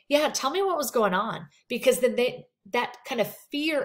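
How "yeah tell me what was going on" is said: a bit higher, normal volume, pushy; brisk and brushing off. Shown as a demonstration. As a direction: press without matching their softness. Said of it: "You don't wanna say".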